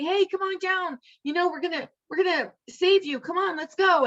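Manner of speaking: a light mock shout down from the boat; calling from boat. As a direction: rescuers calling up to the roof, urging him to come. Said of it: "they say".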